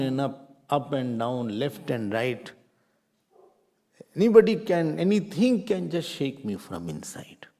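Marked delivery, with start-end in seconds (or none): 4.1-7.5 whispered aside. Real, not acted. Teacher describing inner fragility.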